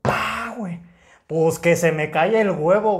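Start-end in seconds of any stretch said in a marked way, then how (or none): 0.0-0.5 high-pitched mimicked bang; imitated loud thud. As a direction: imitate the sudden smack of impact. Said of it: "se escucha un putazote". (imitando un golpazo)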